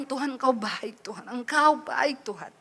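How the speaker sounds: retold crying prayer, fading into a breathy whisper; tearful prayer. Rider praying to God on a frightening journey, tearful. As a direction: re-enact praying softly through tears. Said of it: "nangis tuh saya cuma bilang".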